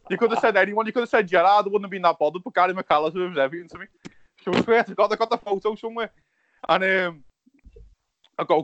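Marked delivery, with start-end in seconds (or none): 0.1-3.9 higher and louder, worked-up protest; excited retort. Retold or imitated. To the stranger, louder worked-up protest. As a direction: blurt it out, half laughing at himself.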